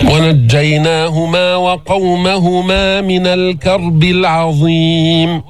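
slow chanted recitation; Quran recitation. Shown as a demonstration. Teacher reciting the verse as a model. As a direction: draw the verse out in a measured chant.

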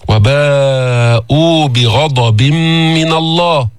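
very slow chanted verse; Quran recitation. Acted. Teacher quoting al-Baqara in slow chant. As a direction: draw the verse out. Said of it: "قال في سورة البقرة".

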